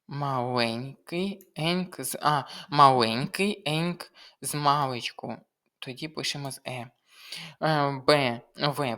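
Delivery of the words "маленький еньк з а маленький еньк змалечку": "Маленький" said very slowly; drawn-out example word. Shown as a demonstration. Teacher showing pupils the suffix in a word, slowly drawn out. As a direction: stretch out "Маленький" for the class.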